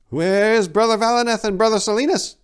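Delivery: high, loud worried monk; barely holding back panic; restrained panic. A narrator's reading. Monk Morthil asking about missing brothers, anxious. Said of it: "with restrained panic in his eyes".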